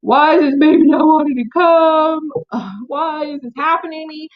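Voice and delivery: high, loud exasperated wail; frustrated outburst. Retold or imitated. Asking why the baby won't come, loud and frustrated. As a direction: vent the frustration at the stalled labour. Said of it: "I'm getting mad".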